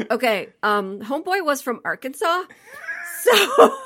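breaking up laughing mid-sentence; squeaky laugh through the words. Real, not acted. Laughing through punchline reveal.

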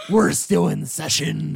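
slow, emphatic in-character objection; interrupted therapist. Acted. Pirate therapist to someone kicking in the door, slow objection. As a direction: draw it out to send the intruder away. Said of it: "he just looks at you and goes".

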